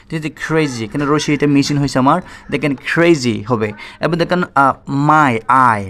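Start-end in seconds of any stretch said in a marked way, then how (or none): 5.1-5.8 "মাই" loud, with an ai glide, then "আই" alone. Shown as a demonstration. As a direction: punch out "মাই", then its "আই" sound. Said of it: "আই হবে, মাই". ("মাই", "আই" জোরে, আই ধ্বনি দেখিয়ে)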